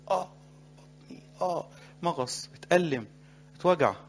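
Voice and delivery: hammed-up stomach ache; mock pain groans. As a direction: act out a sore belly. Boy voiced with stomach pain.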